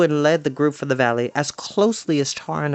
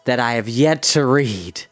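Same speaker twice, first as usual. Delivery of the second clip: playful example; 3 semitones lower than usual. Shown as a demonstration. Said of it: "okay, perfect example".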